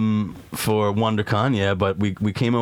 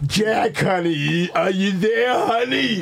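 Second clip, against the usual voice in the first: put-on much higher, sweet old grandma; 10 semitones higher, slower than usual. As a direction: coo like a grandma on the phone. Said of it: "doing my own grandma voice".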